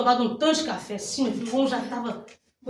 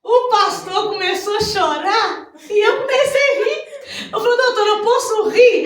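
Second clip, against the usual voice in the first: laughing; 11 semitones higher, 7 dB louder than usual. Real, not acted. Pastor's wife retelling her good news to the congregation, laughing. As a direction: voice lifted high with laughter.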